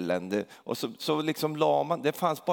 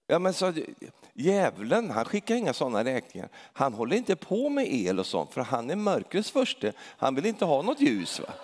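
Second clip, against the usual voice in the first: excited retort; 3 semitones higher than usual. Retold or imitated. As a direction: set him straight with mock zeal. Preacher retells own retort. (lekfullt ivrigt svar)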